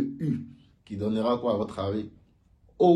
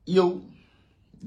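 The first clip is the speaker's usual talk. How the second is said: slow model syllable; 5 semitones higher, 3 dB louder, much slower than usual. Shown as a demonstration. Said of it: "Imaginez, on dit".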